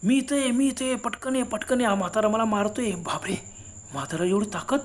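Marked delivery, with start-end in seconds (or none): 0.0-2.9 cry for help. Retold or imitated. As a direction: call up from the ravine for help. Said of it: "खालून अण्णाने आरोळी दिली".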